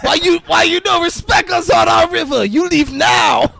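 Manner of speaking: high, loud, indignant mock Asian accent; shouted broken-English Asian accent. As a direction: scold trespassers in a hammed-up Asian accent. Acted angry accented film character.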